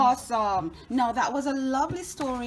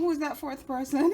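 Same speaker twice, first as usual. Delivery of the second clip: laughing question. Real, not acted.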